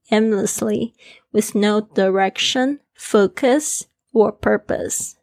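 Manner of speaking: measured, clearly articulated reading of an English passage; English listening read-aloud. Shown as a demonstration. Teacher rereads the English part for listening practice, clear read-aloud. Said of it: "我英文的部分我再念一次哦".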